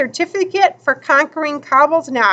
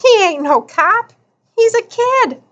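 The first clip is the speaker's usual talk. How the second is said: snickering; 9 semitones higher than usual. A narrator's reading. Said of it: "Piper snickered".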